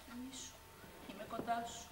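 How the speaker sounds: rock her to sleep with the voice; soothing lullaby tone. Acted. (η αδερφή νανουρίζει τρυφερά)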